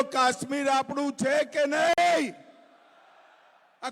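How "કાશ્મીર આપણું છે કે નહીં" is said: asked again louder to the crowd. Shown as a demonstration. Rally speaker repeats it louder to the crowd. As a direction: raise the question louder, calling for a roar back. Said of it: "અરે, જોરથી બોલો".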